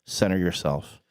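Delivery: mock-solemn meditation guide; guided centering. Host centering the co-host before the joke, mock-solemn.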